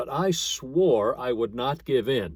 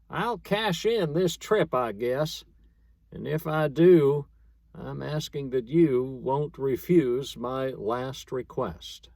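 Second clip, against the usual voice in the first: dying prospector's plea; 3 semitones higher than usual. Acted. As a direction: ask it like your last wish, fading. Dying Sam asks last request.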